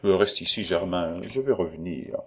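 high, merry, rowdy excuse; redoubled gaiety. Acted. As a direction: make a jolly show of being tipsy. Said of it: "un redoublement de gaieté en disant".

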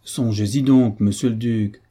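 firm, insistent plea. Acted. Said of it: "avec une nouvelle insistance".

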